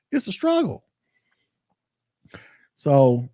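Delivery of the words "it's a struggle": pitched way up, strained; high strained wail. Real, not acted. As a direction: squeeze it out high and pained. Venting about diet struggle.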